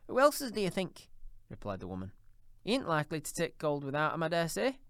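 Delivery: put-on high, coarse old charwoman, brazen; a bold thieving charwoman, defiant. A narrator's reading. Charwoman boasts of her spoils.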